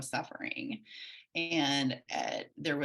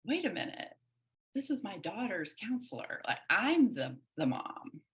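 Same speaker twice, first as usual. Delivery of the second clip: dawning realization; 4 semitones higher than usual. Retold or imitated. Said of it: "I was like".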